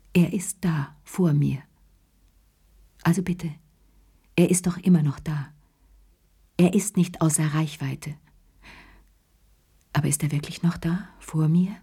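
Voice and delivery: half-whispered words to herself; inner repeated words. Acted. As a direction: whisper the mantra inward. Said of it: "tief in ihrem Inneren wiederholten Worten".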